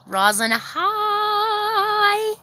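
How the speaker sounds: very high and very slow, stretched greeting; highest pitch. Shown as a demonstration. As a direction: squeeze out the highest note you can. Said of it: "That's as high pitch as I can go".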